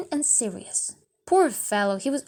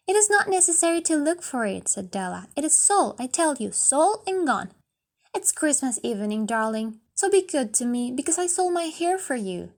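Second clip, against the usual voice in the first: put-on pleading young wife; 3 semitones higher than usual. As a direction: coax him not to be upset. Della insists to Jim.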